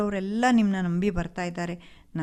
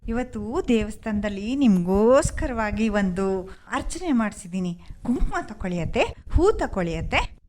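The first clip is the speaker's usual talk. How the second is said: fake sweetness; 3 semitones higher than usual. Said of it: "ಅತ್ತೆ ಜೊತೆ ಪ್ರೀತಿಯ ನಾಟಕ ಆಡಿ".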